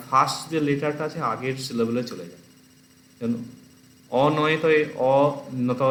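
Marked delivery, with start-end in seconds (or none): 4.1-5.8 অ ন ত said as separate letters; অ, then ন, then ত, never blended; letters kept apart. Shown as a demonstration. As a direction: sound out অ, ন, ত one by one, unjoined. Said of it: "এরকম আমরা উচ্চারণ করি না".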